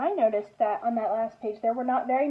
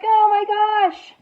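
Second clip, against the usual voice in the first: hare's dismay; 7 semitones higher, 8 dB louder than usual. Acted. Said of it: "He's like".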